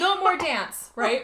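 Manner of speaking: loud, high mock announcement; imitated indignant shout; mock yell. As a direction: yell it like an outraged principal. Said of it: "yells about how the school dance".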